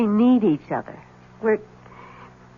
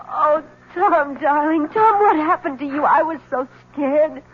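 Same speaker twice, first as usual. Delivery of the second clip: relieved; 6 semitones higher than usual. Acted. Wife relieved at husband's return.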